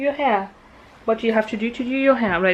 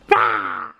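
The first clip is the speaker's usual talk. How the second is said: dinosaur roar. Acted. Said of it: "How do you do it?".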